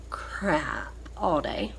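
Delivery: whispered, slow and worn out; weary whisper. Real, not acted. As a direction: drop to a tired whisper, slow. Tired, sick, fed up.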